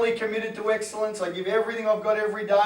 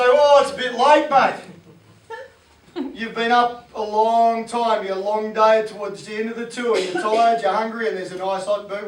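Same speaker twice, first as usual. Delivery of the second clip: Fat Wayne voice; 7 dB louder than usual. Retold or imitated. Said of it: "says Fat Wayne".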